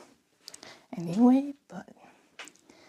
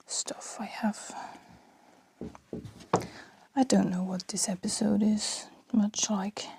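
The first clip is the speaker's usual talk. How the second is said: whispering. Real, not acted. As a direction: keep it hushed, mother in the next room. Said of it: "I don't know why I'm whispering so much".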